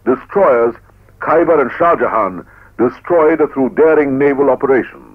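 stirring newsreel narration; proud, rousing war report; old newsreel. Acted.

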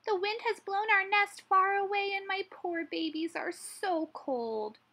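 high mouse voice, slowing at the end; squeaky Mother Mouse. A narrator's reading. Mother Mouse fretting over her cold babies, squeaky. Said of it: "squeaked Mother Mouse".

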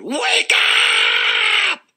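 very high, loud shriek; yell as loud as she could. Acted. Principal screaming at sleeping Amy at full volume. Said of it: "yelled at Amy as loud as she could".

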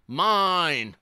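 loud, high drawn-out wail; high possessive howl. A narrator's reading. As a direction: wail it like a child losing a toy. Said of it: "as he wailed".

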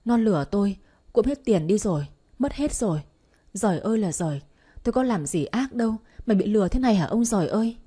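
mildly acted tearful lament; a touch of weepy complaint; speaking through tears. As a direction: wail to heaven, lightly acted. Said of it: "nói trong nước mắt".

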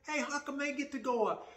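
loud, high-pitched indignant protest. Acted. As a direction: protest loudly like someone cut in line. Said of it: "And that's indignant".

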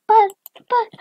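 small, high-pitched stammer; mock tearful squeak; tearful protest. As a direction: plead weakly, as if starting to cry. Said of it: "starts crying".

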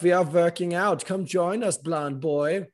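hammed-up beckoning to join the workout; mock gym bro invite. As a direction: call him over like a cocky lifter. Gym guys inviting him.

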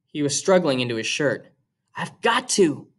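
steady, even read-aloud voice; reading a novel aloud to students; story narration. A narrator's reading. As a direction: read the chapter to the class. Teacher reads novel aloud to class.

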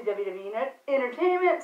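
tripping over the words; stumbling, restarting a word; stuttering. Real, not acted. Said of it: "stuttering over here".

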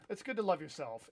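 a touch of unintended sarcasm; sarcastic-sounding. Real, not acted. Streamer encouraging a viewer to love yourself, sounding sarcastic. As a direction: praise that comes out faintly sarcastic. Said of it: "I know that sounded sarcastic".

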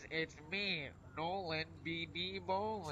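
pinched-nose nasal voice. Pretend. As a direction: hold the nose and talk. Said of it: "plug my nose".

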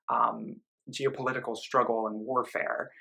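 breathy unvoiced whisper. Real, not acted. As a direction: drop to a whisper. Whispered aside on warfare.

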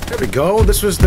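high, loud burst of joy; excited. Real, not acted. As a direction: cheer it out. Cheering a win in game.

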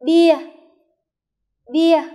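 "Bia" called out loud, high, for the class; drill repetition. Shown as a demonstration. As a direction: belt out "Bia" to be echoed. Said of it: "Phát âm lại cùng cô". (đọc to "Bia" cho lớp đọc theo)

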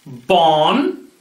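Bon said slowly with a nasal French o; French syllable, slowly. Shown as a demonstration. Teacher to kids, modelling Bon slowly in French. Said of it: "You can say it with me".

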